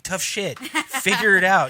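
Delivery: lightly voiced judge brushing them off; retold blunt refusal; dismissive judge. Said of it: "And he's like".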